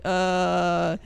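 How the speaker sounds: high, baffled mock question; a bewildered "the who, the what now" at chat; mock confusion. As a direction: play lost and puzzled, half-joking. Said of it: "I'm like".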